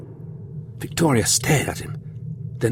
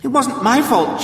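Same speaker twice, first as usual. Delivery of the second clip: high, frightened protest; girl begs the warlord, afraid; crying out in fear; 13 semitones higher than usual. A narrator's reading. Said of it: "she cried".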